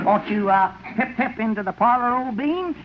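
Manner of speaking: hammed-up fake English accent, jumping high; a country man faking an upper-class Brit; mock British butler. Greeting the lady as a fake British butler. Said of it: "your man has a rather peculiar accent".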